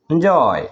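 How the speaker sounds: এনজয় with a long, falling জয়; stress on জয়. Shown as a demonstration. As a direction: lean on the second syllable of এনজয়. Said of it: "এটাকে উচ্চারণ করতে হবে এভাবে".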